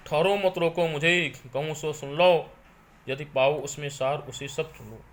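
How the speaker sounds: measured, sung-through verse reading; poem recitation. Acted. Teacher reciting Kaikeyi's verses to students, solemn poem recitation. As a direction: recite the lines with weight and rhythm.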